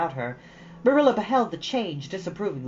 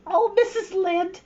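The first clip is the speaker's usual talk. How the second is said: quivering voice. Acted. Anne kneeling before Missus Lynde, quivering apology. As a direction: let the voice quiver as you beg. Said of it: "with a quiver in her voice".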